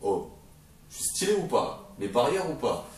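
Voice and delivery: mock a fanboy showing off; Bartholoméo. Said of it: "t'auras Bartholoméo qui fera".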